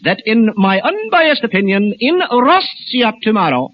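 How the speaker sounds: grave, measured newsman with weighty pauses; news commentator impression. Comic at supermarket show, solemn news commentator voice. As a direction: read it like a solemn radio commentator. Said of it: "impersonation will be a well-known news commentator".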